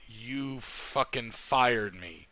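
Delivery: slow, deadpan disbelief; incredulous. Retold or imitated. Telling the con chair she fired him, slow incredulous deadpan. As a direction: drag it out in disbelief.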